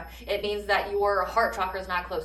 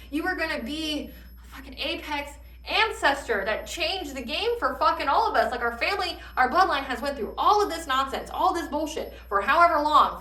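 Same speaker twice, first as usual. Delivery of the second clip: scolding ancestors' voice, pitched up; channeled angry ancestors; 3 semitones higher than usual. Retold or imitated. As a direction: speak as the ancestors, fed up with him. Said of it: "when I channeled that".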